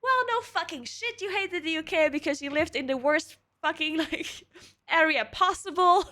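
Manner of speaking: imitating Sean mocking. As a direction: friend teasing her about where she lived. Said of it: "And he was like".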